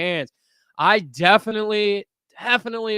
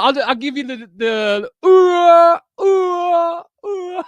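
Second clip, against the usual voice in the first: put-on Indian accent; 9 semitones higher, 7 dB louder, slower than usual. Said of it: "terrible Indian imp-, uh, accent impression".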